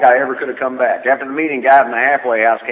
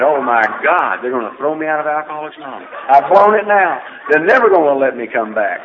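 mock panic; 4 semitones higher, 6 dB louder than usual. Retold panic after a relapse.

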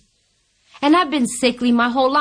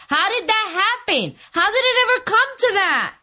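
retold bewildered despair; 8 semitones higher than usual. Acting out despair at her bottom.

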